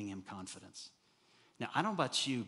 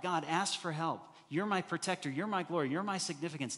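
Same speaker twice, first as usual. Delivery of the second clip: raised, pleading cry to God; earnest prayer, louder and higher; 5 semitones higher, 4 dB louder than usual. Acted. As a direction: call out to God louder, with each my pressed. Voicing David crying out.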